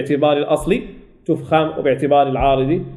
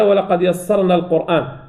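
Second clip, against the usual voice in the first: Quran recitation. Shown as a demonstration. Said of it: "قال تعالى".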